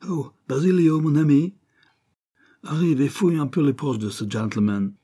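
put-on high, loud English-accented call. A narrator's reading. Gunman ordering Basilio to search pockets, English accent. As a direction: call your accomplice over in an English accent. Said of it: "avec un fort accent anglais".

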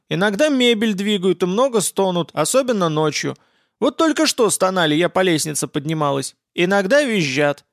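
lightly voiced granny telling tales, a bit high; hint of a chatty old lady; old woman. Old woman describes the ghosts.

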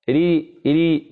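slow, drawn-out "ري" with a thin r; light ra. Shown as a demonstration. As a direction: model "ري" slowly, r kept light before the i. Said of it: "تكون مرققة".

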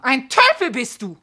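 loud exasperated insult; scolding. Acted. Wife scolding her blunt husband, exasperated. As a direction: snap it at the oaf.

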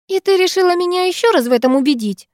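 mock her sister with a sneer; snide. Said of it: "ехидно отозвалась сестра".

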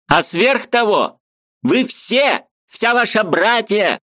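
high, eager voice of a Ukrainian friend; lively high-pitched friend arguing; Mikhalevich's voice. A narrator's reading. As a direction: play the excitable friend up high.

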